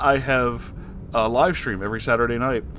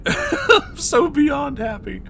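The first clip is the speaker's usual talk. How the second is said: laughing; 12 semitones higher, slower than usual. Real, not acted. Happy laughing reaction.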